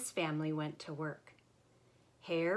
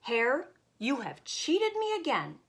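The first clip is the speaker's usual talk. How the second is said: scowling Bear; 6 semitones higher, 5 dB louder than usual. Acted.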